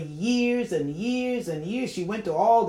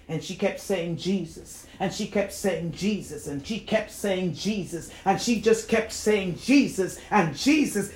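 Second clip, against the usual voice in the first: building repetition. Retold or imitated. Retelling her calling on Jesus amid the priests, building repetition. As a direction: build the retold calling of the name.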